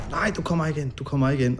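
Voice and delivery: high, frantic pleading at the door; a retold panic that blocks the doorway; imitating a frightened no, pitched high; hysterical.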